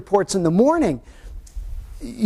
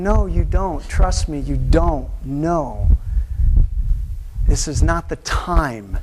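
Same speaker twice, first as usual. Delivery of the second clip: calm God; 4 semitones lower, slower than usual. Acted. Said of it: "God's up there ... going".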